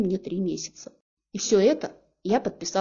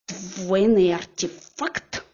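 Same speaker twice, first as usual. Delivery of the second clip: очень медленно, с подъёмом на «Сдвоенный»; протянуть «Сдвоенный артефакт» с подозрением; угрожающий переспрос; much slower than usual. Acted. Героиня переспрашивает с угрозой. (героиня медленно, подозрительно переспрашивает жениха)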